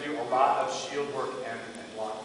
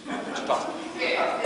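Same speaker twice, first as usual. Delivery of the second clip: normal talking voice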